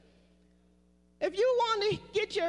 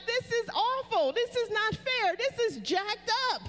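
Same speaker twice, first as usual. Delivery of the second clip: demonstrating a complaint to God; 4 semitones higher than usual. Shown as a demonstration. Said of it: "You can say to God".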